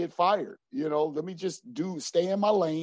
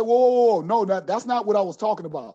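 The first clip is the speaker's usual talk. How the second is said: retold protest; 3 semitones higher, 6 dB louder than usual. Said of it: "I said".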